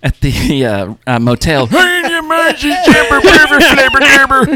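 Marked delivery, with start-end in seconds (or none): 1.7-4.5 put-on high, loud cranky old man. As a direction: rant like a grumpy old man. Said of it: "you sounded like that old man at the motel".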